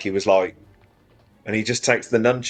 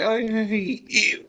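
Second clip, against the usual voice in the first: higher, slow, mock petulant; mock sulky son; 10 semitones higher, slower than usual. Rollo sulking at his father, mock petulant. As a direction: pout it like a resentful son. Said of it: "It's like".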